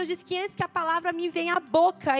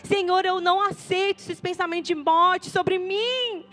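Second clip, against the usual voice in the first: declaring prayer. Pretend.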